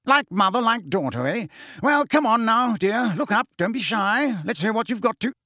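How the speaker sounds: put-on jolly uncle coaxing a shy girl; coaxing Fudge. A narrator's reading. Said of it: "Fudge coaxing Marietta".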